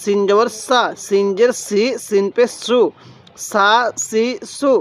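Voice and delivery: সা, সি, সু with a thin, light s; spelling drill, light সিন and open সা; thin S sound. Shown as a demonstration. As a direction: keep the s fine in সা, সি, সু. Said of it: "আওয়াজটা একটু চিকন করে পড়ব".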